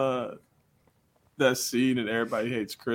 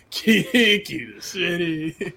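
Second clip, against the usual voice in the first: higher, laughing echo of the line; laughing repeat; 6 semitones higher, 3 dB louder than usual. Real, not acted. Echoing the co-host's joke while laughing.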